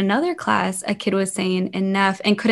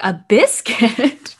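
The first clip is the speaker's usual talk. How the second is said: slow, louder and higher, drawn-out disbelief; baffled question; 3 semitones higher, 6 dB louder, much slower than usual. Retold or imitated. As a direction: stretch it out, puzzled at the odd word. Surprise at kid's answer.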